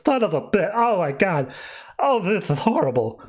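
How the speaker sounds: mock lisp after a punch in the face; punched-mouth lisp. Villain bleeding from a punch to the nose, lisping. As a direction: lisp it like your mouth just got clocked. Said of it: "like, a lisp because she got punched so hard".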